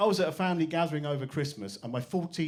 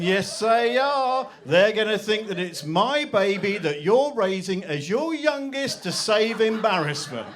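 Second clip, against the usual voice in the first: mock shrill outrage; 5 semitones higher, 6 dB louder, slower than usual. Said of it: "It's going".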